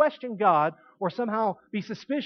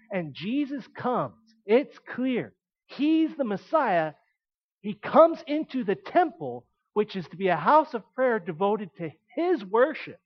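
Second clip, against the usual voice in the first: full-force preaching; 3 dB louder than usual. Acted. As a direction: preach it out, building to the temple.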